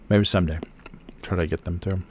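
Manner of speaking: talking while chewing; words around a chewy bite. Real, not acted. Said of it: "I'm chewing a squishy, rubbery thing".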